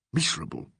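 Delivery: breathy whispered single word. A narrator's reading. Legg whispering his misery to Alan. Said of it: "he whispered".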